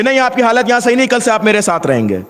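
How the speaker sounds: fast, curt take-charge tone; blunt order. Retold or imitated. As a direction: rush it as a brusque command. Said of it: "وہ یہ بھی تو کہہ سکتا تھا". (تیز اور روکھا حکم)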